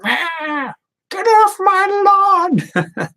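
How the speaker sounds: high, slow mock old-man yell; grumpy old man. Old man yelling at neighborhood kids, hammed-up. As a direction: ham up a cranky old man shooing kids. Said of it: "jaded, angry ones that are like".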